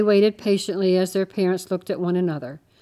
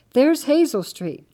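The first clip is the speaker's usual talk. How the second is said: higher, louder, slow excited exclaim; 7 semitones higher, 6 dB louder than usual. A narrator's reading. Girl announcing the street to her family, excited. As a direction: stretch it out, thrilled to have found it. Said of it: "Annie said excitedly".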